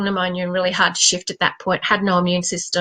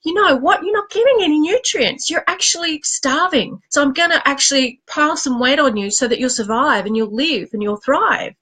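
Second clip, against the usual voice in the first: lightly voiced, higher talking-to from her own body; 4 semitones higher than usual. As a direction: play her body lecturing her, a bit higher. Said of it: "It thought".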